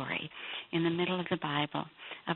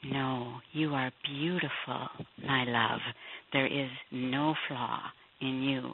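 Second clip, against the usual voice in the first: lower, slow and gentle, a loving king; tender king's voice; 4 semitones lower, slower than usual. Retold or imitated. The king reassuring his ashamed bride, lower and slow. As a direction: speak low and slow like a tender shepherd king. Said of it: "But he says to her".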